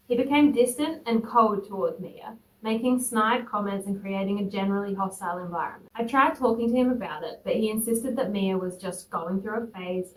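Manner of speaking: composed first-person storytelling; story narration. A narrator's reading. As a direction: read the post out evenly. Reads a posted story aloud.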